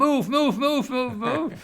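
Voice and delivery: put-on be the restless body shouting at the child; urgent inner voice. A child's restless body telling them to move, high urgent chant.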